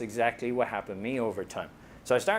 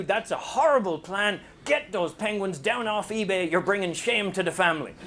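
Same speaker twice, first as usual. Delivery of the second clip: blunt Irish scolding; 7 semitones higher than usual. Retold or imitated. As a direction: talk them down off the silly idea. Blunt Irish people scolding you.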